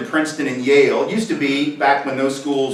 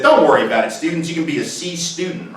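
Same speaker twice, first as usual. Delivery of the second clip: mock presidential reassurance. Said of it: "gone back and said".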